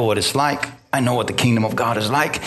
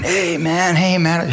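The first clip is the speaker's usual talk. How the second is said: eager attention-getting; 5 semitones higher, slower than usual. Retold or imitated. Friend urgently trying to get attention.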